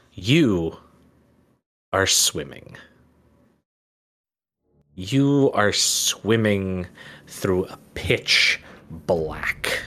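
slow, hushed scene setting; game master scene setting. A narrator's reading. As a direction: draw them slowly into the dark. GM sets the dream scene.

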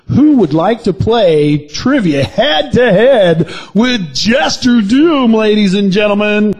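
slow, drawn-out host announcement; game show host. Acted.

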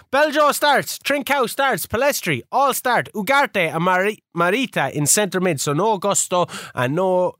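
hammed-up Italian-Portuguese lilt on the player names; Italian Portuguese accent. Host reeling off his starting line-up, mock Italian Portuguese accent. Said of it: "I like your Italian Portuguese accent".

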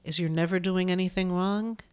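breathy unvoiced whisper. Whispered opening.

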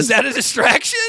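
mock disbelief in a high voice; mock interrogation. Mock-grilling the quoted official.

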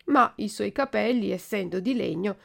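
usual speaking voice

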